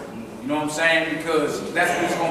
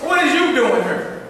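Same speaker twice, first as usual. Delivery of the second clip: big brother; 6 semitones higher than usual. Retold or imitated. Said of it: "That's his older brother".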